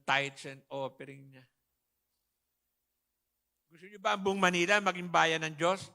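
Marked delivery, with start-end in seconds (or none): 3.7-5.9 louder call to the crowd; rallying question to the hall; rousing question. Real, not acted. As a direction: ask the congregation to answer. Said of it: "Ang hina ng sagot".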